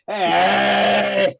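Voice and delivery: high, drawn-out mock-friendly greeting; switched to friendly. Mean-faced opponent suddenly switches, imitated friendly greeting. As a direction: imitate a sudden big smile in the voice. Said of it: "then he completely switched".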